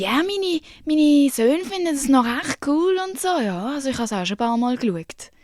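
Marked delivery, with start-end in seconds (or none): 0.0-3.3 imitating the judge. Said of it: "Und dann irgendwie".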